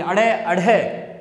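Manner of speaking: अड़े, अढ़े with a "taṛāk" tongue slap; cracking flap. Shown as a demonstration. Teacher demonstrates the slapping sound, slow flapped अड़े, अढ़े. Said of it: "आवाज़ तड़ाक जैसी आती है".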